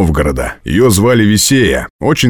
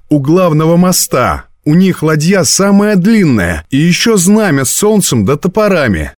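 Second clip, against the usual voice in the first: put-on high, animated girl's voice; eager description; 10 semitones higher than usual. A narrator's reading. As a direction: describe it excitedly on a high pitch. Girl eagerly describes the boat.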